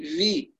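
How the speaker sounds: في said with a buzzing voiced v; English v sound. Shown as a demonstration. Teacher mocking reciters who read fa like English v. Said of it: "مثل حرف الفي".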